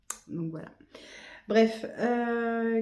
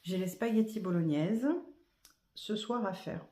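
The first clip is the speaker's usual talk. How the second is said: hiccups. Real, not acted. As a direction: still catching hiccups. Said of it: "Excusez-moi, j'ai le hoquette".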